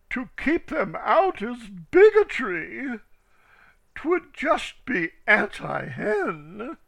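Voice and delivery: put-on young ducks calling out bigotry. A narrator's reading. Young ducks back the hens.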